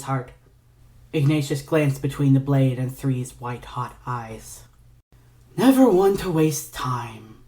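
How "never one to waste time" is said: slow, sighing whisper; sighed. Acted. Ignatius sighing at the sword at his heart, slow breathy whisper. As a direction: breathe it out, weary and amused. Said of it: "Ignatius sighed".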